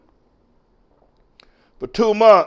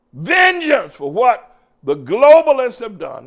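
fiery pulpit preaching, raised voice; 5 semitones higher than usual. Acted. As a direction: preach it to the congregation.

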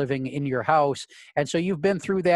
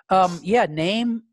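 higher-pitched hostess, name drawn upward; offhand hostess voice, pitched up; restaurant hostess; 4 semitones higher, 4 dB louder, much slower than usual. Acted. Hostess asking arriving diners for a name, higher-pitched voice. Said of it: "she looks and says".

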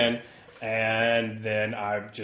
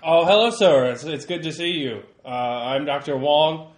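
polite reporter; 6 dB louder than usual. Acted. Player voices polite reporter.

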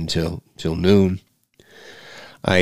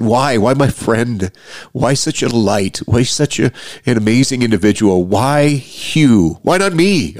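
retold yell at God; 4 semitones higher than usual. Grieving friend questioning God on the drive home, mild anguished yell. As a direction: retell a desperate cry of why, drawn out. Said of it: "I yelled at God pretty good".

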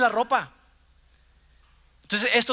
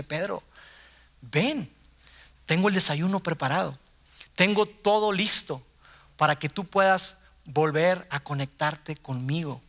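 tender invitation; 4 semitones lower than usual. Retold or imitated. Jesus's loving call contrasted.

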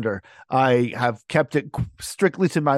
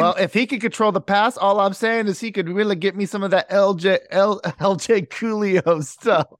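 hairdresser voice; 4 semitones higher than usual. Acted. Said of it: "I was trying to sound like some, some hairdresser".

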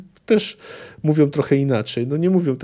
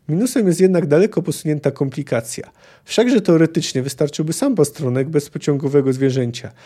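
reading a novel aloud with lightly voiced characters; story narration. A narrator's reading. Lecturer reading a Witcher passage to the class, story narration. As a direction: tell the tavern scene like a storyteller.

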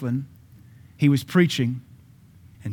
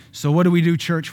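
louder, raised question; rhetorical shout; 4 semitones higher, 3 dB louder than usual. Real, not acted. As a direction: press the question on the church again. Preacher repeats question.

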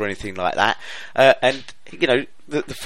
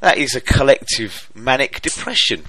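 exasperated; 4 semitones higher, 7 dB louder than usual. Real, not acted. Exasperated rant about club.

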